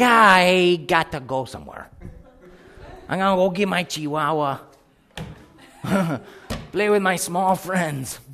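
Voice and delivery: laughing through a mock escape line; laughing excuse. Preacher laughing as he flees the giants. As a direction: chuckle while backing away. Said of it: "It's like".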